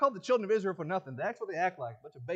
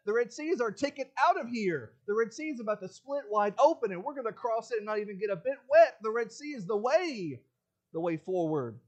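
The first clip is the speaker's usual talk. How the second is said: louder, raised rallying cry to a frightened crowd; Moses rallying; 4 semitones higher, 5 dB louder than usual. Retold or imitated. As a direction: lift them with certainty. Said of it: "Moses says".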